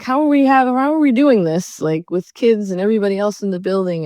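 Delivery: high, pressed disbelief, half-acted; retelling her shocked objection; incredulous outrage. Retold outraged question at work.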